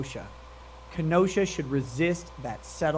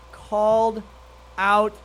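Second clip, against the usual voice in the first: gloating shout; 2 semitones higher, 5 dB louder, slower than usual. Real, not acted. Streamer gloating.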